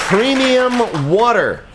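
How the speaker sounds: slow, drawn-out "premium" like a luxury commercial; mock upscale ad voice. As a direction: savor "premium" as if selling something fancy. Host mocks luxury water marketing.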